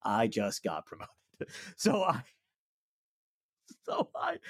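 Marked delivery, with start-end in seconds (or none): 0.0-1.1 defiant comeback. Acted. Acted defiant comeback to insurer.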